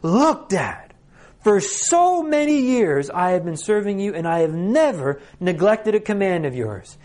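put-on furious older son protesting; rage and spice. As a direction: let fury push the pitch up. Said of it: "some rage and some spice in this voice".

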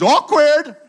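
high, loud drawn-out "Awkward!"; sarcastic "awkward". Shown as a demonstration. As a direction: sing it out like the awkward emoji. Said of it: "like, new tone that we now use".

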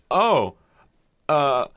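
startled. Retold or imitated. Old couple asking shopper about creamer, startled. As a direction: imitate someone caught off guard, stumbling. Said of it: "it looked like I startled them".

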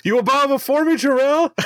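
high, booming villain decree; hammy tyrant demanding submission; Zod voice. Retold or imitated.

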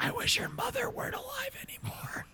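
high airy whisper meant to be secret; mock whisper that carries across the table; loud stage whisper. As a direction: whisper it as if no one can hear. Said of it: "It's just real loud".

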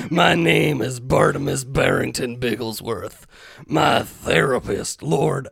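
lightly voiced veteran, slowing grandly; hint of an old veteran reading a journal; grizzled old veteran. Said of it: "like, grizzled old veteran".

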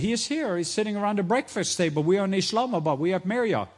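loud, high, hurried answer; excited reply. Retold or imitated. Coordinator answering the imam, loud high excited voice. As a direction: call it back loud over the phone.

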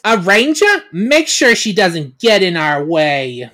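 a furious queen ordering a guard; angry villain order. Acted. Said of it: "She's pissed".

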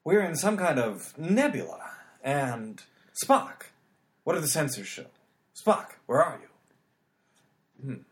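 dramatic halting captain voice; Kirk impression. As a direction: pause heavily like a starship captain. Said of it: "James Tiberius Kirk".

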